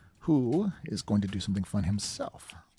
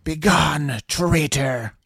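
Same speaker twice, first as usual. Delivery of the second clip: loud, raised battle cry; shouted command; 4 semitones higher, 7 dB louder, much slower than usual. Acted. Spellcaster shouts at Vosh to banish, commanding shout. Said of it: "and shout".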